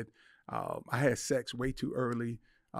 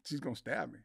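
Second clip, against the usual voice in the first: hushed, softer inner thought; fearful thought; 8 dB quieter than usual. Retold or imitated. Husband quietly fearing his wife's reach. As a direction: mutter it in mock dread. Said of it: "and I'm thinking".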